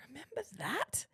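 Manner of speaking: secretive inner whisper. Retold or imitated. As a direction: whisper it to yourself. Retold inner thought, whispered.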